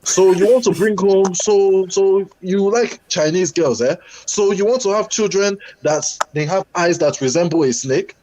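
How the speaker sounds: put-on high Nigerian accent, scornful mother; mock the African mother, high and incredulous; Nigerian mum accent. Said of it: "And she said to me".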